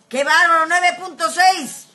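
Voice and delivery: loud, high amazement, slowing on the number; loud, astonished exclamation; amazed outburst. Real, not acted. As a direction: marvel at the score out loud. Amazed at a sports score.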